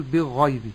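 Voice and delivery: "بالغيب" with the l swallowed into the gh; wrong merged lam. Shown as a demonstration. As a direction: drop the l of "بالغيب". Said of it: "بإدغام اللام في الغين".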